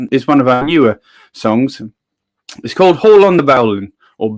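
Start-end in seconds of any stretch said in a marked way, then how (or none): 3.4-3.9 "Bowline" with an OW vowel and a reduced ending; bow-lun pronunciation. Shown as a demonstration. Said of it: "whatever you wanna pronounce it".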